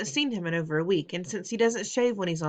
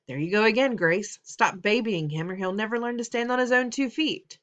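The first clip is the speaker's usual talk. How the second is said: annoyed father; 4 semitones higher, 4 dB louder than usual. Acted. Father snapping at mother.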